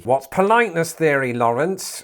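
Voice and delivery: put-on rude question; mock impolite. Imagined viewer interrupting the presenter, mock impolite. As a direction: ask it impolitely, for the humour. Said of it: "I was doing that impolitely".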